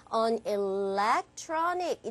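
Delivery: "electronic" slow with stress on TRON; deliberate "on electronic", TRON stretched. Shown as a demonstration. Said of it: "여기 강세 어디 갈까요?".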